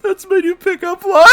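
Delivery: high, loud, tearful laughing voice; laugh-crying. Real, not acted. Reacting to the fan fiction, crying with laughter. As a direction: squeak it out through tears of laughter. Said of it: "I'm fucking crying".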